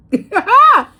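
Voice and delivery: laughing yeah. Retold or imitated. Laughing reply to a shocking story.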